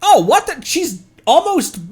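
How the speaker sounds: sudden high, loud disbelief breaking into a laugh; surprised outburst. Real, not acted. Streamer blurts out in shock at the voice line, laughing. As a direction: caught off guard and blurting it out.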